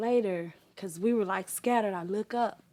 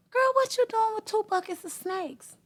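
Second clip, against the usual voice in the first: mild mock alarm; 13 semitones higher, 5 dB louder than usual. Mother in dream questions daughter.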